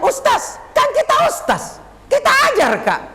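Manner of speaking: lightly voiced student asking; asking ustaz. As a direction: voice the student's pointed question. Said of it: "Dia bertanya".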